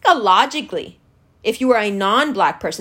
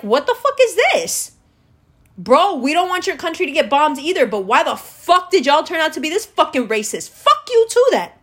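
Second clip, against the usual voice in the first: indignant imagined viewer; 3 semitones higher than usual. Retold or imitated. Black viewer answering racist treatment, outraged. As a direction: snap back like a hurt friend turned angry.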